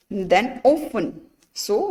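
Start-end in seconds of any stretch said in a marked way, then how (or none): 0.6-1.2 "often" said as OFF-en, slowly; "often" with the T left silent. Shown as a demonstration. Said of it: "We are not speaking often".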